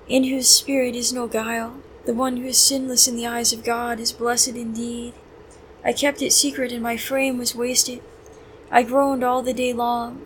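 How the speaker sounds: measured, prayerful verse reading; psalm recitation. Real, not acted. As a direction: read scripture aloud as prayer.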